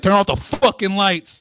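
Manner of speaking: mock dad yell, high and slow; hammed-up fatherly scolding. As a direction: imitate a dad griping at the kids, drawn out. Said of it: "that's why he's yelling at you".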